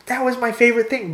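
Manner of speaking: high-pitched mock wail of loss; mock lament. Imagining losing a good thing, mock lament. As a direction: whine it in exaggerated disappointment. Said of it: "you're like".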